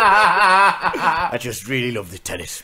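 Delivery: laughing and cracking up while quoting him; quoted confession half-laughed out; laughing through the quote. Retold or imitated.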